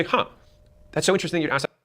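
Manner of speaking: genuinely intrigued, lightly lifted; curious innocent question. Shown as a demonstration. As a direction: sound curious and innocent, as if it's all new.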